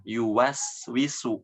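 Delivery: Yuwaswisu with clear full waw; slow, clear Yuwaswisu. Shown as a demonstration. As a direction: complete waw. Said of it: "Ya, dijelaskan".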